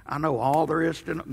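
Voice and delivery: slow, lightly voiced old man. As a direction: drag it out like an old-timer. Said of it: "Amy hates my old man voice".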